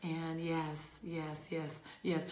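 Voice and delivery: usual speaking voice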